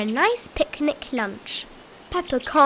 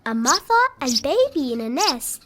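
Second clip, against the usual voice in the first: Peppa's voice; 3 semitones higher than usual. Acted. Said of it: "Peppa likes looking".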